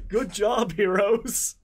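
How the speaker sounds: dry, mocking praise; sarcastic. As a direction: say it with heavy sarcasm. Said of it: "I was using sarcasm".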